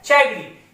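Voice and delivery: चाइग्री with a ch start, like chai giri; wrong pronunciation. Shown as a demonstration. Teacher showing how the word sounds if misread, ch as in chai. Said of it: "right pronunciation से नहीं पढ़ते हैं तो इसका sound क्या आता है?".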